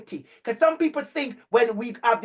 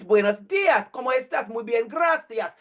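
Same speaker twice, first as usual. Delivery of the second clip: Spanish. Retold or imitated. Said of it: "I play somebody in Spanish".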